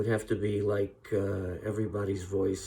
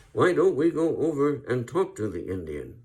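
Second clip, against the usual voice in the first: Gary Cooper take two; 5 semitones higher, 5 dB louder than usual. Retold or imitated. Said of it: "Let's do that again".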